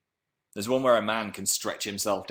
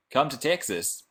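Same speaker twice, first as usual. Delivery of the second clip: put-on amateur Texan accent, a little higher; attempted Texan accent; 4 semitones higher, slower than usual. Streamer trying out an accent for viewers, shaky Texan. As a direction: have a rough go at Texan. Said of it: "I can't do that accent".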